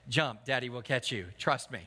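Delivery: low, softened coaxing; lightly voiced reassuring father; coaxing daddy. Father coaxing small child to jump.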